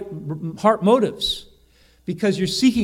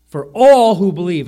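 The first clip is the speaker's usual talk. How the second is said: all hit hard and much louder, falling tune; stress on all; 10 dB louder than usual. Shown as a demonstration. Preacher driving home all to the congregation, loud. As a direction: boom out all in for all who believe. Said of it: "And all is emphasized".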